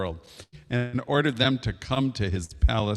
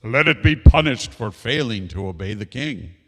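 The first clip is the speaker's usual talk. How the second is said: loud royal command; angry shout; 6 dB louder than usual. Acted. King orders punishment from servants, shouting. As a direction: call out the sentence like an angered king. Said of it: "he shouted to his servants".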